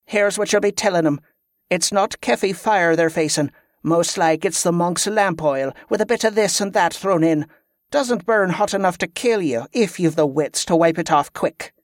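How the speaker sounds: lightly acted leader laying down the line; instructing commander. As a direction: tell the captive exactly what to say.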